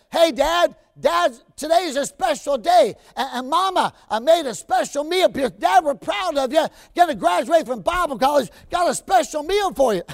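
put-on a little boy proudly inviting his dad to dinner; young son's voice. Preacher voices his young son.

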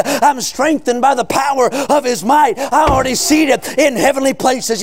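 driving, sustained revival sermon cadence; full-force preaching. Real, not acted. Preacher proclaiming salvation to the congregation, full-force preaching. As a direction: preach it hard, stretching the key words.

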